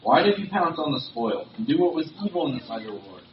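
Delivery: reading a reproach with rising force; stern prophetic rebuke. Acted. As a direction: confront the king, hitting the opening words hard. Samuel rebukes Saul in scripture reading.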